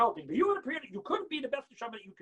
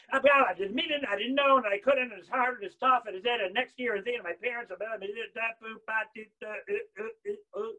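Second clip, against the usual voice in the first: loud whine sinking into babble; mock excuse-making; 5 dB louder than usual. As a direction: pile up excuses till they dissolve into mumbling. Mocks people's trailing excuses.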